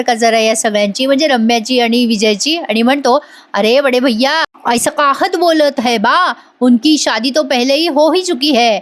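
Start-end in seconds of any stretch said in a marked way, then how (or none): 3.5-8.8 lightly voiced Hindi-speaking Guddu, slow, as if chewing paan; a hint of Guddu talking through a mouthful of paan; playful Hindi put-on, slowed down. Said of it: "पान खाताना बोलतोय तो".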